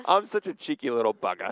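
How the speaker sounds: laughing at herself. Real, not acted. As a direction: chuckle through the words. Laughs at own cheekiness.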